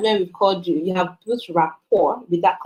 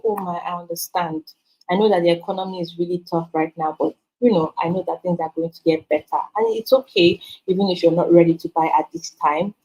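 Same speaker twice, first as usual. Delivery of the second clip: softer, calm reassurance to a broke customer; soft understanding reply; 4 semitones lower than usual. Shown as a demonstration. Seller reassuring a broke customer, softly and calmly. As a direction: soothe the customer gently. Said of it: "and say".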